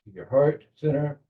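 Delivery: measured meditation guide with long pauses; guided visualization. Acted. Leader settles the group into belly breathing, calm guided meditation. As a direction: guide them calmly, leaving space between phrases.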